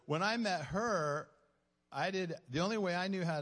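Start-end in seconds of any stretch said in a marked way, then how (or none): 0.0-1.3 amused, talking through a laugh. Real, not acted. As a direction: break into laughter, then explain louder and higher. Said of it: "I'm laughing because".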